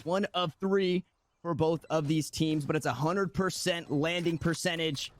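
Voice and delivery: quick live play-by-play call; esports caster. Acted. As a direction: call the round as it unfolds.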